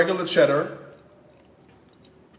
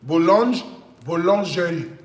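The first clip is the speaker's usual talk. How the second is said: boulangerie said again, reaching for a French accent; French accent retry. Shown as a demonstration. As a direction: take another pass at boulangerie in a French accent. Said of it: "what's the French accent?".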